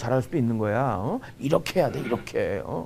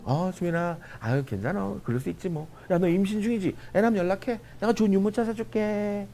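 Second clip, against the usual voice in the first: kindly reassurance; 6 semitones higher than usual. Retold or imitated. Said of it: "내가 좋게 얘기했잖아".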